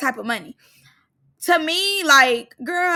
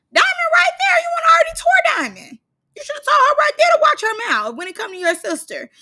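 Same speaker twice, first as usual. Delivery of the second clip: heated shout; 12 semitones higher, faster than usual. Real, not acted. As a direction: yell at the screen in outrage. Ranting at cast member on screen.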